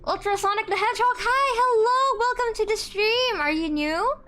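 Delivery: high, loud, bubbly welcome; excited greeting. Real, not acted. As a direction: greet the newcomer with delight. Greeting a new viewer.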